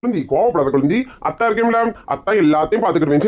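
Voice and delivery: soothing. Acted. Brother-in-law soothes crying girl.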